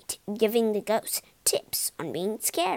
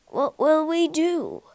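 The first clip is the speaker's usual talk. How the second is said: groaning; 4 semitones higher, 4 dB louder than usual. A narrator's reading. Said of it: "groaned Polly's dad".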